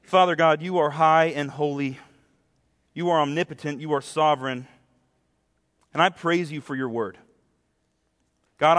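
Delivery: measured prayer with long pauses; unhurried, reverent public prayer. Real, not acted. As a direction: pray aloud for the congregation, phrase by phrase.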